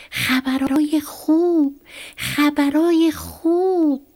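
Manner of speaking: fox shouting. A narrator's reading. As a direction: cry it out like a town crier. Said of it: "رفت جلو و فریاد زد".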